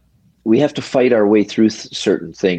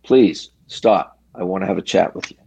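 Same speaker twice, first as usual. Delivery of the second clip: calm monotone. Retold or imitated. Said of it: "in my calm, in a monotone voice, not yelling at him".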